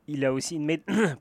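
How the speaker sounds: words cut off by a choke; choking mid-word. Real, not acted. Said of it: "je m'étouffe un peu".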